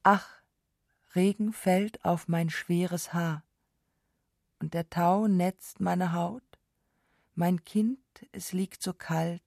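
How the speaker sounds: slow, halting recital of a mournful verse; plaintive song lyric. A narrator's reading. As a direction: read the sung lament slowly, line by line. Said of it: "Heiserkeit des Sängers klagend gemacht". (klagend, langsam vorgetragen)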